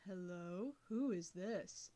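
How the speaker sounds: put-on slow, low, tired old man; a tired old voice creaking into the phone; wheezing old man. A narrator's reading. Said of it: "wheezing tiredly as he spoke slowly".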